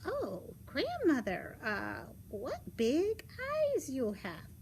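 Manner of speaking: lightly voiced, curious little girl; puzzled Little Red Riding Hood. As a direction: marvel as a puzzled child. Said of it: "thought that Grandma looked very peculiar".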